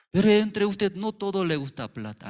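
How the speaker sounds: emphatic preaching. Real, not acted. Preacher addressing congregation.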